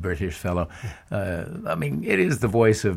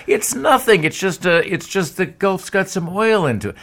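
mocking laugh; 10 semitones higher, 5 dB louder than usual. Mocking the oil executive.

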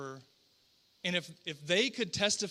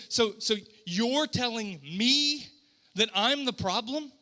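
mildly incredulous, spaced-out question; frustrated parent. Acted. God answering his people, mildly frustrated disbelief. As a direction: throw the accusation back slowly, mildly exasperated. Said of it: "a parent being frustrated".

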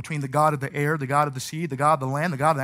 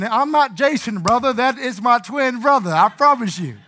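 retold nervous pleading; 5 semitones higher, 5 dB louder than usual. Pleading with gunman, mistaken twin.

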